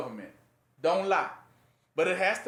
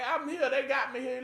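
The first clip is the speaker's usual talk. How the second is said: higher, timid little bird voice; a lost bird, pitched up; small bird; 6 semitones higher than usual. Acted. Trapped bird answering the preacher among wolves, higher and timid.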